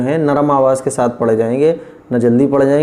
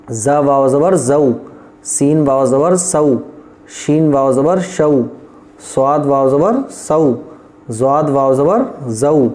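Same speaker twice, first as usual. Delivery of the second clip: slow, even letter-by-letter chant; slow recitation drill. Shown as a demonstration. Teacher reciting the letter drill slowly. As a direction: recite each syllable clearly for students. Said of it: "बीच में रहेगा".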